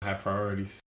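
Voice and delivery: hollow, echoing mic sound; like talking from a distant echoey room; echo chamber. Real, not acted. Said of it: "You sound like you're in an echo chamber".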